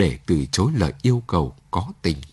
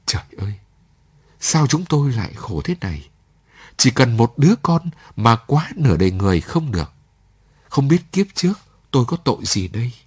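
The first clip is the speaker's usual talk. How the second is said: rising, louder, understated sobbing plea; mild crying lament; 3 semitones higher, 4 dB louder than usual. Acted. Landlady laments her childlessness, mildly tearful and rising. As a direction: let the grief build toward a wail, lightly. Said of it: "Cô bưng mặt khóc".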